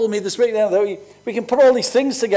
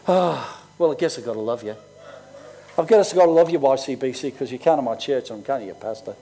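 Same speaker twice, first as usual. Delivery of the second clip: grudging mock reluctance; 6 semitones lower than usual.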